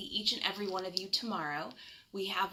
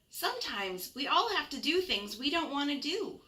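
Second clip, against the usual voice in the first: gentle mother; 6 semitones higher than usual. Acted. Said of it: "she told him gently".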